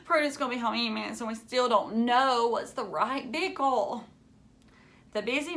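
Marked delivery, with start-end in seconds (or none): 0.0-4.0 rushed then slowing, higher and anxious; mild panicked wail. Acted. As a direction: fret that time is running out.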